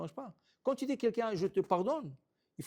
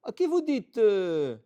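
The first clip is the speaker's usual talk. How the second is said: loud, rising outraged shout at the crowd; angry shout; 5 semitones higher, 8 dB louder than usual. Retold or imitated. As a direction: scold the crowd in disbelief. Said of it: "Et il crie".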